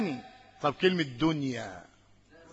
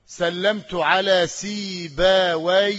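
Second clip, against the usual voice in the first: سلمت على سيبويه said very slowly, a bit louder; slow example phrase; 5 dB louder, much slower than usual. Shown as a demonstration. Teacher giving a grammar example, slow and clear. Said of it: "أما أقول".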